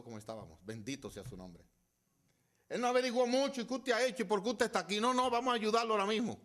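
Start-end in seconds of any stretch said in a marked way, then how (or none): 2.7-6.4 loud, high-pitched pulpit delivery; impassioned sermon climax; full-force preaching. Real, not acted. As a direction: drive the point home at the top of the voice.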